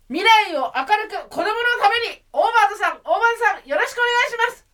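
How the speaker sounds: campaigning politician. Shown as a demonstration. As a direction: plead for votes from a campaign truck. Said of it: "ドブ板風".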